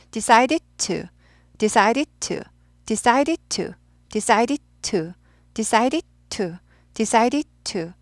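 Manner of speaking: "decided" clipped, "to" detached; staccato. Shown as a demonstration. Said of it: "많이 따라하세요".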